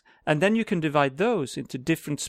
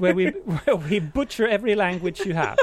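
fake Russian accent. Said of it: "that's a fake, uh, Russian accent here".

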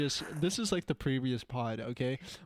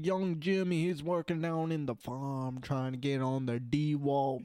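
playful stereotypical Southern farmhand; Southern accent. Pretend. Telling of young Jimmy working down on the farm, mock Southern accent. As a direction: ramble in a put-on Southern accent. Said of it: "the stupid Southern bullshit".

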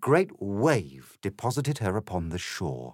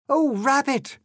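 high, loud plea; Alice's desperate cry; 6 dB louder than usual. A narrator's reading. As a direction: call out urgently in a much higher voice. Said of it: "cried Alice".

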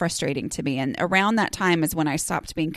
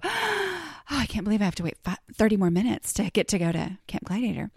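mock eager excitement; 3 dB quieter than usual. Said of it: "wake up at, like, four thirty in the morning and go".

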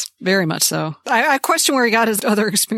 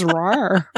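lion roar; 3 semitones lower than usual. Retold or imitated. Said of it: "Where the lion goes".

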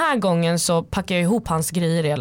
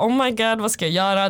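mildly panicky, pitched up; recalling a scared thought, lightly acted; retold panic; 4 semitones higher than usual. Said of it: "jag blir livrädd". (lätt panikslagen, återberättat)

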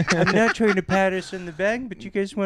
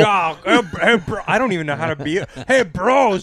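bro voice; 3 semitones higher, 5 dB louder than usual. Pretend. Mocking bro talk.

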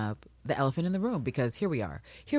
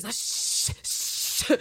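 whispered shush; soft unvoiced shh; mock shushing; 7 dB quieter than usual. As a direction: hush someone like hiding them. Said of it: "which is fucking Mariana's energy".

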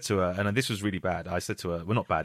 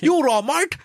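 high, loud London geezer shout; geezer accent; 5 dB louder, faster than usual. Shown as a demonstration. Comedian showing the geezer part of his character's accent, loud geezer. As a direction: do a cheery geezer accent, pitched right up. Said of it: "There's elements of geezer".

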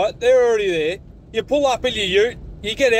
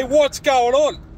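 mock greeting; 2 semitones higher, slower than usual. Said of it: "You say".

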